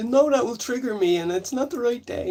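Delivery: high, tearful, sobbing, crying voice. Retelling what she says after being scared by a prank: imitating her crying. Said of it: "she starts crying and going".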